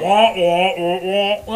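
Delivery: muffled trombone-like wah wah; mock Peanuts teacher wah-wah; Peanuts adult wah-wah. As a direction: imitate the Peanuts parents droning. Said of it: "sounds like the parents on the Peanuts movie".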